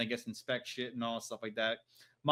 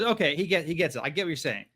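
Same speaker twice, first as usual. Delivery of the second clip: loud; 3 semitones higher, 5 dB louder, faster than usual. Retold or imitated. Voicing Alfarius loudly.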